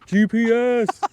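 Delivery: loud excited shout. Real, not acted. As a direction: yell it out triumphantly. Excited hunt for the GPS.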